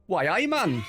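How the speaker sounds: lightly done Geordie accent. Shown as a demonstration. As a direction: show off a quick Geordie "Why, aye, man". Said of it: "Geordie accent is a bit like this".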